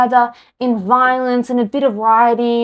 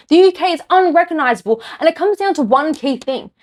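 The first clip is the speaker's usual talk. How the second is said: rising, heated, pitch climbing higher; getting angry; 4 semitones higher than usual. Real, not acted. Vlogger ranting to viewers about the UK, heated. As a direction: let real anger creep in. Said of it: "I'm getting angry".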